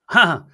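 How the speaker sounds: short, high, loud "ha!"; retold amused laugh. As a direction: toss in a single mock laugh. Retelling friend's amused reaction.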